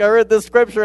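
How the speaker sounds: half-mock preach to himself; preaching to mirror. Young convert in front of the mirror, mock fervent preaching. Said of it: "and I just preach".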